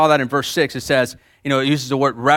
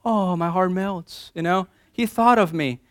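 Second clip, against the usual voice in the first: swooning woman; 3 semitones higher, 3 dB quieter than usual. Pretend. Woman reading card.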